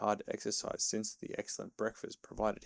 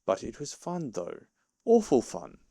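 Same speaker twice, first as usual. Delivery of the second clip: mutinous; 3 semitones higher, 7 dB louder than usual. A narrator's reading. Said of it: "he kept saying to himself mutinously".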